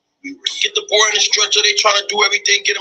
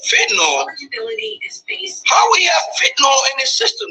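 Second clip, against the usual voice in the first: panicked disbelief; 9 semitones higher than usual. Retold or imitated. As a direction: cry it out like a mother who can't believe it. Mother's panicked question retold.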